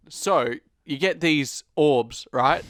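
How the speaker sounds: slow character impression, lightly put on; a hint of a slow impersonation; Riley. Friend does a character on request, mild impression. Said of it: "do the character of Riley".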